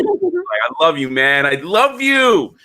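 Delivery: drawn-out, hammed-up declaration; mock gushing affection. Acts out bear-hugging a friend.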